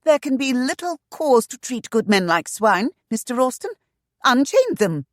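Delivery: high, loud imperious order; commanding anger. A narrator's reading. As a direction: order him firmly and angrily. Lady scolds agent.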